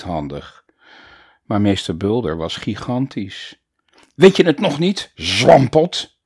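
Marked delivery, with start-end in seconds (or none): 4.1-6.2 loud, higher furious roar; louder bellow. Acted. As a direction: yell it even louder at the boy. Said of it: "brulde meester Bulder nu, nog luider". (nog luider brullen)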